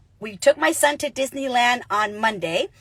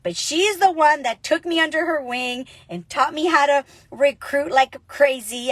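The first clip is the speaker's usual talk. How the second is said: ordinary talk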